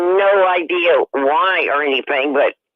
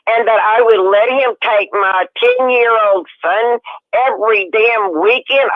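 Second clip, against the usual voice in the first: higher, outraged retold confrontation; accusing her mother, pitch raised; angry; 5 semitones higher than usual. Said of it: "Oh, I was so mad. I could have spit nails".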